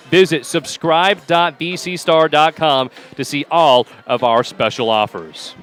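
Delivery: smooth announcer promo read; sponsor ad read. Real, not acted. Announcer plugs the newspaper that backs the broadcast, promotional read. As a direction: read out the sponsor plug to listeners.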